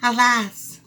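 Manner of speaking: high, loud lament; alas. Acted. Mouse finds the pot empty, wailing high and loud. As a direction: wail it in dismay. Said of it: "said the mouse".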